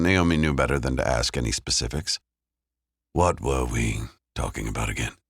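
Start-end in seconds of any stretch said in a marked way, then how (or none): 3.1-5.2 fake nonchalant. A narrator's reading. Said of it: "trying to sound nonchalant".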